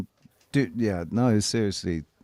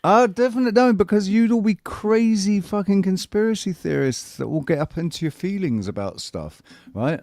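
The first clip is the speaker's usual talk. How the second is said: posh English accent; 8 semitones higher than usual. Shown as a demonstration. Showing friends his posh English barrister voice. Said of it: "this is how I'd be speaking as well".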